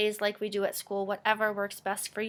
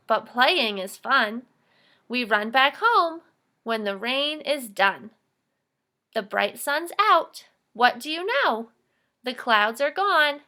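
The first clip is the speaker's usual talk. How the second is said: reading a poem aloud. Shown as a demonstration. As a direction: read each line out clearly for the class. Teacher reads the poem aloud.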